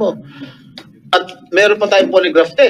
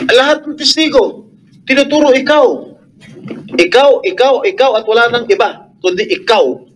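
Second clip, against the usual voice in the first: high-pitched, emphatic accusation; raised angry voice; 3 semitones higher than usual. Real, not acted. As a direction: drive the accusation home at the witness. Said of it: "Nagtataas kami ng boses dahil". (galit na pang-aakusa, mataas ang tono)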